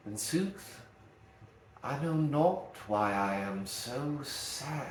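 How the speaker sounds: slow, even stress spread across every word; slow monosyllable line. Shown as a demonstration. Teacher reads the Shakespeare line slowly, stress spread evenly. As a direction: lean on each small word slowly, In sooth. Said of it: "the example that he provides".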